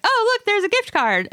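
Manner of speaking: high, chirpy mock delight; mock excited. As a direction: gush like it's a treat. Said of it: "I think everyone's like".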